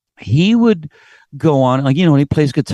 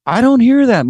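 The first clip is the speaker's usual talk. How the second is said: high, louder, emphatic statement; mild mock emphasis; emphatic quote; 10 semitones higher, 4 dB louder than usual. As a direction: stress that nobody else does this. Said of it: "He goes".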